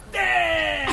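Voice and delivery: put-on high child's cry; little girl's shout. Little girl pointing something out to the bowman, high shout. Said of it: "And she goes".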